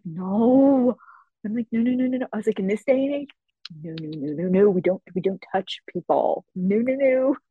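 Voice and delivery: firm refusal. Retold or imitated.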